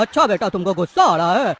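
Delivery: taunting echo with a laugh; mocking laugh. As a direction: laugh it back at him mockingly. Thug mocks the claimed anger.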